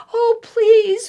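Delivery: put-on high, pleading child's whimper; whimpering plea. Eddie hiding in the basket, whimpering. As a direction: beg under your breath. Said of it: "whimpered Eddie".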